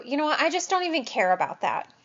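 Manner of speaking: fast, brushing off "don't even care"; a hint of an indifferent patient; dismissive. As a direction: toss it away quickly. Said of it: "if somebody says to you".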